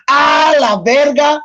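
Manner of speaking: mock Spanish cursing. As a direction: play an angry man cursing someone out in Spanish. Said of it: "That's another one".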